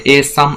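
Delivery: "a sum" cut off as one foot, weight on "sum"; metrical foot. Shown as a demonstration. Teacher counting five feet for students, word cut at the foot boundary. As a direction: mark off "a sum" as a counted unit. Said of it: "সেই পাঁচটা দলে ভাগ হয়ে যাচ্ছে".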